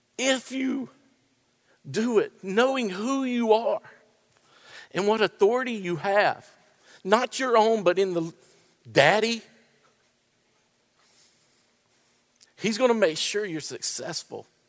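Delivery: crying while speaking. Preaching about standing firm in hard situations, crying while speaking. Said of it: "I'm sorry I'm crying".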